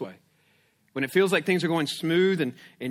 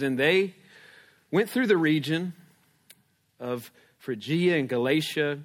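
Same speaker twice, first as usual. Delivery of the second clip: scripture reading; 3 semitones lower than usual. Acted. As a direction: read Acts to the congregation. Reads scripture aloud.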